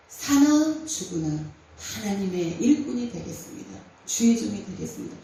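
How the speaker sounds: low, earnest plea to God, half-reenacted; desperate retold prayer. Preacher retelling her own vow in the station, an earnest low plea. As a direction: pray as if trapped in the police station, mildly voiced. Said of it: "하나님 앞에 기도한 거예요".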